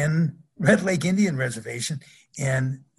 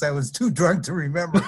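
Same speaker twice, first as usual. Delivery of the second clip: shouted punchline; 3 semitones higher than usual. Retold or imitated. Punchline of retold joke.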